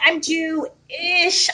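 "Jewish" split as Jew... ish, very drawn out; joking split word. Retold or imitated. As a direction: hold a long pause inside "Jewish" before the -ish. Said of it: "I didn't invent that joke".

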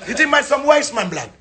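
laughing through a mock offended question. Man mock-offended at his friends, laughing as he asks. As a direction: play the insult while laughing.

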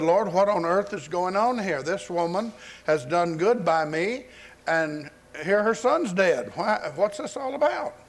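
imitating an exasperated prayer; retold bewildered plea. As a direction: protest to God in puzzled dismay. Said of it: "he cried to the Lord".

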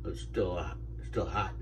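chewing while talking; eating between words; mouth full of oatmeal. Real, not acted. Seen 0: Spoonful of oatmeal and bowl in hand, mouth working between bites.

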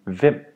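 "hvem" starting on V; mute H. Shown as a demonstration. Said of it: "you only say the V sound".

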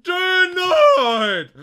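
high, full-volume yell; shouted rejection. Pretend. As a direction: explode as an officer turning someone away. Officer rejecting an entrant in play.

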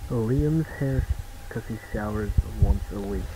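tinny radio voice through a walkie-talkie; like talking over a crackly two-way radio. Shown as a demonstration. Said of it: "sound like you're speaking through a walkie-talkie".

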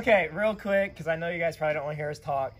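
raspy, worn-out voice; hoarse voice. Real, not acted. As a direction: talk through a lost voice. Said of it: "he lost his voice and sounds really raspy".

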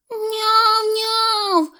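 high, thin kitten mewing; squeaky meows. A narrator's reading. Kitten in the sack squeaks high meows. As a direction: mew twice like a trapped kitten. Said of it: "пискнув мішок".

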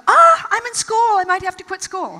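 high, loud mock panic; imitating her younger self's panicked whine; panicky self-pity. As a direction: squeal it in self-centered alarm. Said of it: "all about me".

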